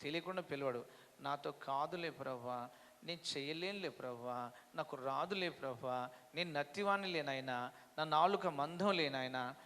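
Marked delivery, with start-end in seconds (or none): 1.2-9.5 mock excuses. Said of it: "సాకులు చెప్తారు".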